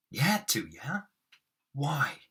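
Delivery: hammed-up interrogation; overacted Moss. Shown as a demonstration. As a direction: play the needling big. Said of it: "I really overact them".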